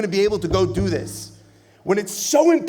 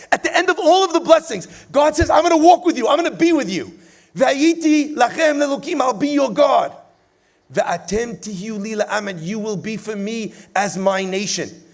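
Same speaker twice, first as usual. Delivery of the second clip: higher and louder, proclaiming God's promise; preaching God's words; 4 semitones higher, 3 dB louder than usual. Acted. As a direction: ring it out like a preacher at full force.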